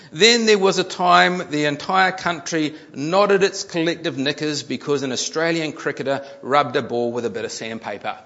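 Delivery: emphatic reading to an audience; article read-aloud. A narrator's reading. Preacher reads a news article to the congregation, emphatic read-aloud. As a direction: read it out with punch.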